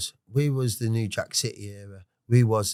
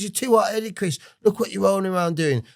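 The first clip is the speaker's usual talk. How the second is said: high, raised voicing of a scolding father; dad's telling-off; 10 semitones higher, 3 dB louder than usual. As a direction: scold him like his dad did. Dad scolding son.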